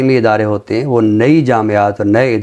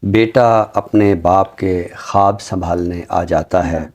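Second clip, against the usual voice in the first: slow, measured ghazal recital with long pauses; poem recitation; slower than usual. Acted. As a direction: savour each line of the couplet, unhurried. (धीमी, ठहरी हुई ग़ज़ल की अदायगी)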